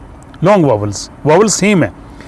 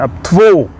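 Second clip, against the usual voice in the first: थ्वो with a long, stressed vowel; 3 semitones higher than usual. Shown as a demonstration. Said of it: "तो इस पे ज़ोर ज़्यादा है". (थ्वो में लंबी, ज़ोरदार आवाज़)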